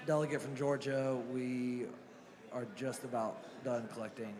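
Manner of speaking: losing her voice, raspy; hoarse voice fading to a rasp; raspy whisper. Real, not acted. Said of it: "I'm losing my voice".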